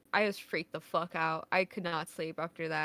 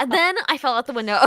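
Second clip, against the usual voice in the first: laughing; 9 semitones higher, 17 dB louder, faster than usual. Pretend. Joking, laughing story aside.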